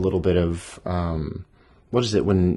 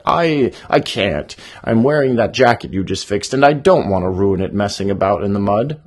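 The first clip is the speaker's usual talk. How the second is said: stuttering nervous excuse; 6 dB louder than usual. Shown as a demonstration. Badger dodges helping the bunny, stammering. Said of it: "give him a stutter there".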